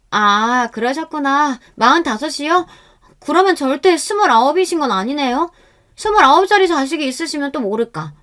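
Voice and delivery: put-on high, sing-song young woman; spring the trap sweetly; knowing mock innocence. A narrator's reading.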